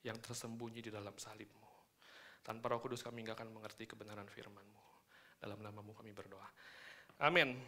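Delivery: softening prayer voice. Acted. Opening prayer.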